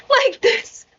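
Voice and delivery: hammed-up "Mic test!" with a falling end; announcer-style mic test. Shown as a demonstration. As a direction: bark it out like testing a PA. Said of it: "Nag-mic test si Gago".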